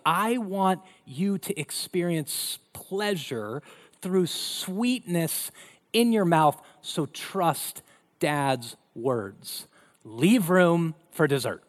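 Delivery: slow, coaxing dad voice; gentle dad. Retold or imitated. Dad telling his daughter to save room, slow and coaxing. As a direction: draw it out like a patient father.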